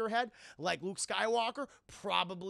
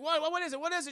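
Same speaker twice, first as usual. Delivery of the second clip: high, mock-flustered questions; startled questioning; 10 semitones higher, 5 dB louder, much faster than usual. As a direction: blurt it out in acted alarm. Han answers alarmed call, retold.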